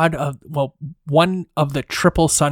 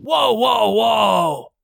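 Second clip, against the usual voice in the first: startled whoa; 5 semitones higher, much slower than usual. Acted. Guardian startled by threat.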